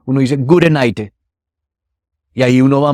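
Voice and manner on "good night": "gute night" with an Italian E tacked on, light Italian accent; mock Italian accent. Shown as a demonstration. Actor explains Italian-accented English to a host, light mock Italian accent. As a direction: say "gute night" like an Italian adding a vowel at the end. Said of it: "si uno quiere hablar como italiano".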